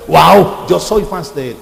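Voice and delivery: a loud gushing "wow"; hammed-up fan excitement; mock starstruck fan. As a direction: gush like a fan.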